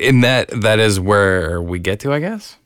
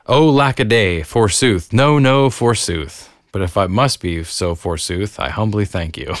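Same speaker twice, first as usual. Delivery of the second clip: hammy stage actor. Acted. Reading a 1663 comic quote.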